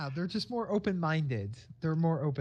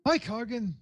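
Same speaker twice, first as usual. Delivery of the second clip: higher-pitched, shaky attempt at an Irish accent; hammed-up amateur Irish accent; butchered Irish accent; 6 semitones higher than usual. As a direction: greet him in a bad Irish lilt. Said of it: "how bad am I gonna butcher her accent".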